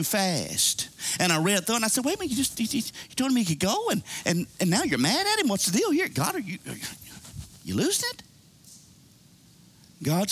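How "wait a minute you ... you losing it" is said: stammering, baffled retold objection; puzzled, halting challenge, acted out; incredulous protest. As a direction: sputter in mock disbelief, tripping over the words. Retelling his puzzled protest to God.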